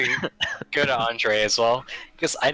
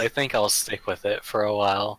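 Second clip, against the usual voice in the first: put-on young but worn voice; 3 semitones lower, slower than usual. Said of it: "I'm trying a new voice".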